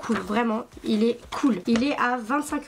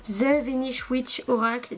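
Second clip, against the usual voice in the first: slow, French-English accent on "The Venice Witch Oracle"; English accent on the title; 2 semitones higher than usual. Real, not acted. YouTuber to viewers, reading the English title in a French-English accent. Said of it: "Désolée pour l'accent".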